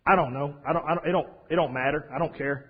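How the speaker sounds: put-on mildly shy young boy, halting and noncommittal. Young boy asked by the cobbler, shy and hesitant. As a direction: imitate a boy's low-key, stumbling indecision. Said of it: "just being shy and not wanting to".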